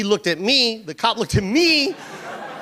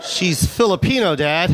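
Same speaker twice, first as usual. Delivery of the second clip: put-on exasperated kid; 3 semitones lower than usual. Kid correcting dad, a touch of a shout.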